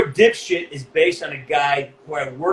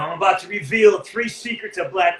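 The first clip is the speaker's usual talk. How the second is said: clickbait teaser; 4 semitones higher than usual. Retold or imitated. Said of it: "I had this big, you know, uh, clickbait thing".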